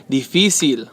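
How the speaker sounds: Difícil stressed on FÍ; stress second syllable. Shown as a demonstration. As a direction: hit the middle syllable of Difícil. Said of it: "it's on the segundo".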